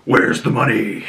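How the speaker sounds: imitated menacing vigilante interrogator; Batman voice. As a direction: demand it like a moody masked interrogator. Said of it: "he's using his Batman voice".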